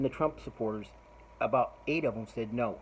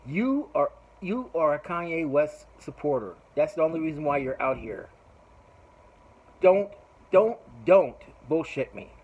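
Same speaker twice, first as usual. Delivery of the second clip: angry accusation; 3 semitones higher, 5 dB louder than usual. Retold or imitated. Speaker accusing a rapper's supporter.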